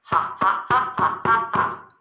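breathy staccato mock ha-ha; put-on storybook laugh; acted laughter. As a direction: pretend to laugh in even little puffs. Acts laughter at poem's end.

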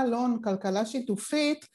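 usual speaking voice

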